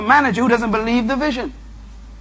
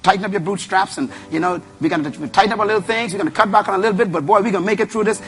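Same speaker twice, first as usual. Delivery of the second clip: upbeat leader; faster than usual. Retold or imitated. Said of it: "That's a leader talking".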